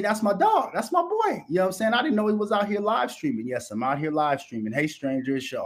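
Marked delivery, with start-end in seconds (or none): 0.0-3.5 high-pitched imitation of other guys; mock fan chatter. Host mimicking guys over there claiming his friend, mock chatter. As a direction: put on a higher voice, mimicking them. Mimics people excited she joined.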